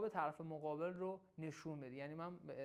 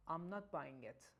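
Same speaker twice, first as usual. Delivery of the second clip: sceptical and cool; 3 semitones lower, 3 dB quieter, much slower than usual. Shown as a demonstration. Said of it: "خیلی شکاکانه و خونسرد".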